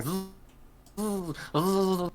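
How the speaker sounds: droning zzz buzz; buzzing insects. Acted. The creatures around you buzzing in chorus. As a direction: buzz like a swarm of wasps. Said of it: "They all make this buzzing noise".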